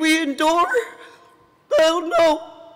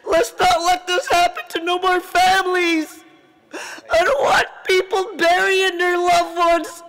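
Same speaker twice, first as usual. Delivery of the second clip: real crying. Real, not acted. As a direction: voice breaking into tears while pleading. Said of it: "I'm sorry for getting emotional".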